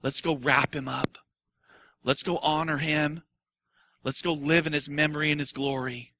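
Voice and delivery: a touch of solemn mourners; mock funeral march. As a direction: drag it like a funeral procession. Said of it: "From a funeral march".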